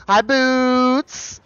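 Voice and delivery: high, slow cooing. Real, not acted. Talking to her pet Boots in high, slow baby talk. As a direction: coo sweetly at the pet.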